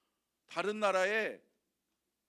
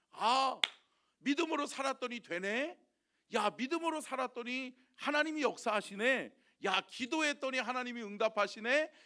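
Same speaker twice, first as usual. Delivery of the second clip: higher, bright exclaiming wonder; joyful discovery; 5 semitones higher, 3 dB louder than usual. Pretend. A believer amazed that faith worked, joyfully exclaiming. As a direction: marvel aloud at God's answer. Believer marveling at answered prayer.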